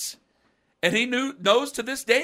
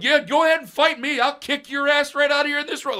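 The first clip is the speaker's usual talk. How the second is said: higher, louder fight-me dare; defiant challenge; 11 semitones higher, 7 dB louder than usual. Retold or imitated. Teenage boy daring grown men to fight. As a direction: puff up and dare them to fight.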